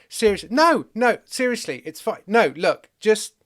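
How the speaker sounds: high, loud, urgent protest; alarmed pleading. Acted. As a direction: frantically talk someone down. Moses talks God out of it.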